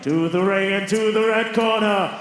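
slow, stretched ring announcement; ring announcer. Real, not acted. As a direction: drag out the fighter's name. Boxing ring announcer introduction.

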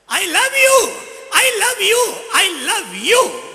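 high and loud, drawn out; shouted echo. Acted. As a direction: call it back like the forest. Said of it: "जंगल में क्या हुआ वापस".

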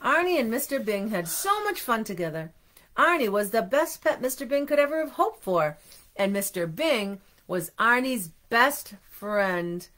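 animated read-aloud, slowing at the close; storybook reading. A narrator's reading. Parent ending a friendship story for children, animated storybook reading slowing down. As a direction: round off the tale for little listeners.

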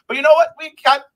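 fired up. Real, not acted. Fired-up rant about the season.

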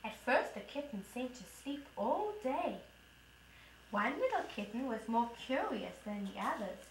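put-on lively storybook voice for a toddler; reading to children. Mom reading the kitten story to her toddler. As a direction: read it brightly to a little one. Mom reads picture book aloud.

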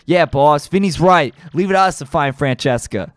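gruff gangster boss, amused then menacing; a hint of a New York mob boss; tough mob boss. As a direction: lean into the Don's threats. Reads mob boss and henchmen dialogue.

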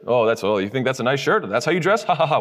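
lightly acted sneering coworker; mock insult. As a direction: needle someone with a fake laugh. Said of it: "insults your shirt".

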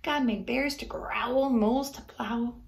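rhythmic rhyming read-aloud; story narration. A narrator's reading. Reading a rhyming book to kids, gently lilting. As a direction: read the verse to children, bouncing the rhymes.

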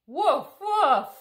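loud playful puppy woofs; puppy barks. Acted. Being Biscuit the puppy for the kids, loud playful woofs. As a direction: bark like a happy little dog.

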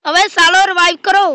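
loud annoyed demand; frustrated shout. Real, not acted. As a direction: bark for a revive. Begging revive.

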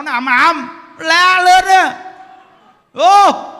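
full-voiced sermon shout; booming preacher shout. Shown as a demonstration. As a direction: blast it out to wake the hall. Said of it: "cái tông giảng của Như Đức là sao".

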